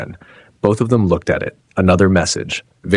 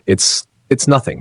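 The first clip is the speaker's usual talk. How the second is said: nervous stammer on the first word; 5 semitones higher than usual. Acted. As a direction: trip over the opening in panic. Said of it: "she stammered".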